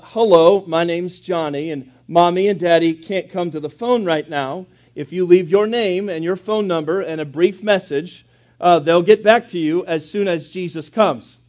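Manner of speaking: put-on a lightly sweetened child's greeting, only a touch of it; mildly sweet, eager little voice; ever so sweetly. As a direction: say it like a proud little boy trying his best. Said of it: "he said ever so sweetly".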